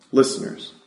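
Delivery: breathy whisper of Listeners. Real, not acted. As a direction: drop to a hushed whisper for effect. Whispered punchline in sermon.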